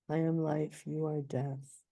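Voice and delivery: you leaned on in "you are death"; stress on you. Shown as a demonstration. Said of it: "I stress the you like that".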